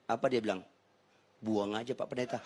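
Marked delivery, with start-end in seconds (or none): 1.4-2.4 offhand, blunt brush-off; blunt dismissal. Retold or imitated. Phone seller to the pastor, bluntly dismissive. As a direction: toss it out bluntly, in a low-key way. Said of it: "Kenapa sih lu kasar banget gitu".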